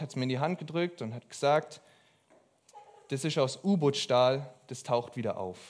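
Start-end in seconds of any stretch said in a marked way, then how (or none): 3.1-5.6 a light Swabian accent, lightly voiced; imitated Swabian accent. Missionary handing over a lent book, in a mild Swabian accent. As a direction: quote the old missionary with a hint of Swabian. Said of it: "ich entschuldige mich für meinen Akzent".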